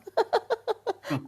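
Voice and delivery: high-pitched giggle; high laugh. Real, not acted. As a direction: laugh at yourself. Laughing at herself.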